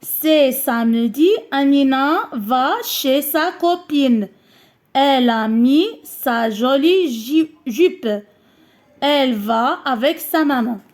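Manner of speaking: a teacher rereading for the class; slow read-aloud for pupils. Shown as a demonstration. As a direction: read the whole text again, slowly and evenly. Rereads the text, "نعاودو.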